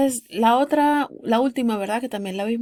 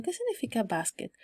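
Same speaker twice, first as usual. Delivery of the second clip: softer, musing question; thinking it over; 6 dB quieter than usual. Acted. Learner puzzling over an unknown word, musing. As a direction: wonder it lightly to yourself. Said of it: "Como que ustedes están pensando".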